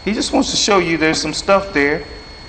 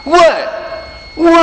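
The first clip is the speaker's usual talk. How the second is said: shocked; 13 semitones higher than usual. Retold or imitated. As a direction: play the stunned student hearing he failed. Student reacts to failing test.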